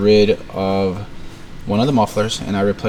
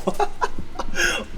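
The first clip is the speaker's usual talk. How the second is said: laugh. Real, not acted. Laughing at the bad gasket.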